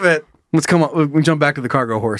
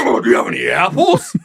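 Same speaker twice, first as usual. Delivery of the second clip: raised horse voice, lightly whinnied; talking horse; 4 semitones higher than usual. Acted. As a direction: ask it as a horse would. Horse asks the flight attendant.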